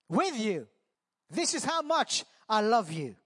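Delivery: eager vow. Acted. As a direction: insist you'd die for him. Peter's boastful promise to Jesus.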